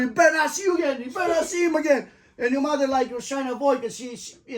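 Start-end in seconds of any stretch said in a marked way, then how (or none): 0.0-2.1 mock yell. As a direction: shout the roommate's threat back. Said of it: "he was yelling".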